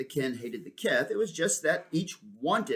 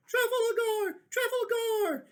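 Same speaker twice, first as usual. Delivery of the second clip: high, loud calling out across the sky; high shouted calls; shouting his name; 4 dB louder, slower than usual. Acted. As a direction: call him back together. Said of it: "began to shout".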